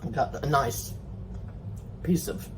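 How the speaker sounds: talking while chewing; words round a bite of food; mouth full. Real, not acted. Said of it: "Excuse me for talking with my mouth full".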